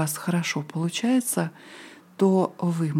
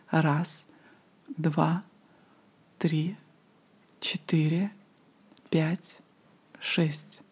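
slow breath counting; 4 dB quieter, much slower than usual. Shown as a demonstration. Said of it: "Медленно выдыхайте".

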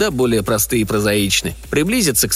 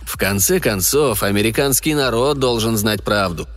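stern general; 4 semitones lower, slower than usual. Acted. General Evans lecturing slowly.

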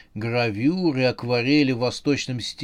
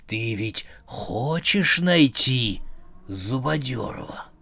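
calm robot voice. Acted. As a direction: speak slowly and coldly calm. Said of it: "совершенно спокойно ответил".

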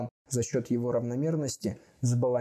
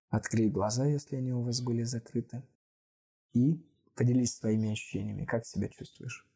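calm guiding voice. Acted. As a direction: ease them back gently. Guided calm wind-down.

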